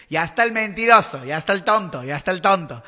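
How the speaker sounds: loud self-mocking jab. Real, not acted. Calling herself a liar, loud mocking. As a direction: scold herself like a liar caught out.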